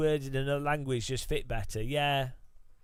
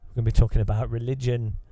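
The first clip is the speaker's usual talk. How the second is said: mock podcast bro; 2 semitones lower than usual. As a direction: parody the hype host selling junk. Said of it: "I need to talk like this".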